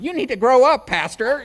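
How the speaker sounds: a stern voice from above calling him out; God scolding. Retold or imitated. God turning the pastor's scolding back on him, loud and stern. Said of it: "God ... he's going".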